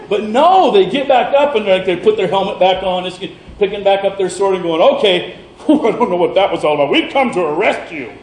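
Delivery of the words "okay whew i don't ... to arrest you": mock soldiers laughing it off, faster; nervous laugh. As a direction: brush it off with a shaky chuckle.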